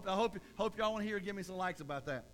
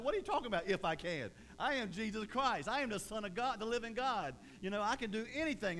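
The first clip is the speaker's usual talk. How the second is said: indignant Jesus; 3 semitones higher than usual. Retold or imitated. Jesus answering the doubting father, indignant. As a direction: insist on his power.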